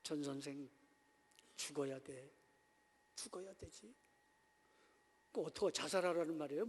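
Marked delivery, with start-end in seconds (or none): 0.0-3.9 low, soft knowing counsel; imitating an understanding elder. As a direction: say it quietly, as if you understand. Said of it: "이해한다는 듯이".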